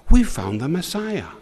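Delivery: a friend blurts the big news excitedly. Acted. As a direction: announce it like the best news ever. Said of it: "very excitedly".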